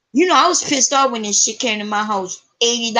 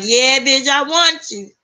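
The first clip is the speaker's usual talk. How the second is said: mock-passionate reply, rising into laughter; eager giving in; 3 semitones higher, slower than usual. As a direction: give in with playful, climbing excitement. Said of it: "I was like".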